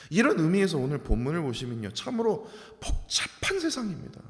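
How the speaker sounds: ordinary delivery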